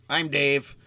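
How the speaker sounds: stuffed-up sinus voice; talking through a blocked nose; nasal voice. Real, not acted. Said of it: "my nasally voice".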